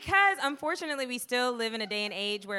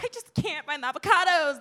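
sweet helpless voice; 5 semitones higher, 5 dB louder than usual. Retold or imitated. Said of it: "and then if you're like".

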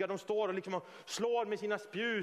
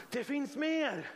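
slow, raised, ringing declaration; preacher's proclamation; 4 semitones higher, much slower than usual. Real, not acted. Preacher declares to the congregation there is more, ringing proclamation. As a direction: proclaim it, drawing out the words.

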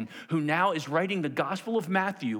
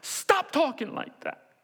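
high, drawn-out exasperated protest; pleading rebuke at raised pitch; correcting; 11 semitones higher, slower than usual. Acted. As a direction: scold him, stretching out every word. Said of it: "He's correcting him".

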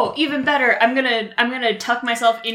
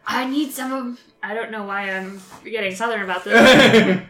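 Santa voice. Acted. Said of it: "She's reading it in Santa's voice".

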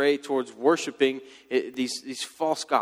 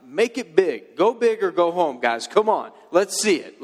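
louder and higher, egging them on like a coach; goading taunt; 4 semitones higher, 4 dB louder than usual. Retold or imitated. Elijah egging the prophets of Baal on, loud mock cheer. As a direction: pump them up to go big, mocking.

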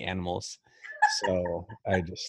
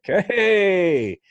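high, eager happy dog; excited dog voice; 10 semitones higher, 4 dB louder, slower than usual. Acted. Host playing a loving dog ready for fun, excited high voice. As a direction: voice an overjoyed dog, pitched right up. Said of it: "like dogs love us. Like".

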